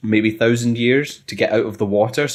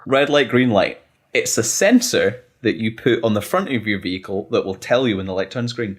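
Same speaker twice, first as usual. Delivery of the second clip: salesman voice. Pretend. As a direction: pitch it like a keen salesman. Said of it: "get out of my salesman pitch".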